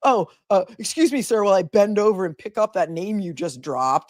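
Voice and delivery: prim, sarcastic put-on voice; mock polite sarcasm. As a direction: fake courtesy, dripping with irony. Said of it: "not that he was just like".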